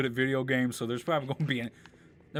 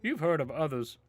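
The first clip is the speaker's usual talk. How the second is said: hammed-up old Goron elder voice; bad acting, big and high; 4 semitones higher than usual. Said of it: "sorry for the terrible voice acting".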